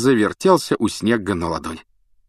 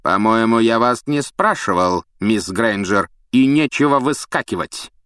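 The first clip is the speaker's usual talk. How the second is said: snapping at her; 3 semitones higher, 4 dB louder than usual. Acted. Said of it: "Снег напустился на Гермиону".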